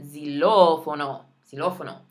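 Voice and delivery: xilófono stressed on the ló syllable. Shown as a demonstration. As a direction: lean on ló in xilófono. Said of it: "Again, watch that accent".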